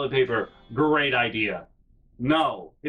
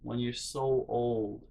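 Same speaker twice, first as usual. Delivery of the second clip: put-on softer, a touch of tearful old woman; tearful quote; 4 semitones lower, 8 dB quieter than usual. Crying old woman warning the listener, softly and tearfully. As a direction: pass on a sad warning, quietly. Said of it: "and she's still crying".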